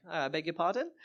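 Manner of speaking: mock-British polite query; put-on British accent. Fake Brit dodging a citizenship question, in a British accent. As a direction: stall with a British accent, rising at the end. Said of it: "pulling out my British greatest hits".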